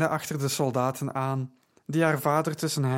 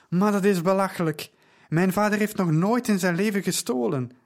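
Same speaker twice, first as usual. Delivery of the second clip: higher and louder indignant outcry; crying out; 5 semitones higher, 4 dB louder than usual. Acted. Daughter defends her father to soldiers, crying out loud. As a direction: she cries out in disbelief, raising her voice. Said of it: "riep ze uit".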